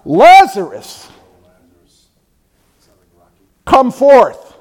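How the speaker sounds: loud, drawn-out authoritative shout; booming summons to the dead; bellowing command. Acted. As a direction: cry it out with full authority. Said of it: "That means a bellowing voice, a screaming voice".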